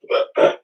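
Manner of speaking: sharp hiccup; a real hiccup mid-speech. Real, not acted. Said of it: "Yeah, like that right there".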